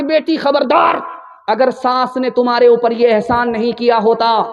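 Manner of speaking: mildly heated motherly telling-off; stern admonishment. Acted. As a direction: scold the daughter with insistent emphasis. Mother admonishing her daughter.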